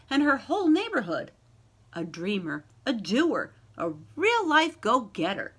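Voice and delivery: lively, sing-song picture-book reading; story narration. A narrator's reading. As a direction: read it like a bedtime rhyme to a class. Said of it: "reads picture book aloud".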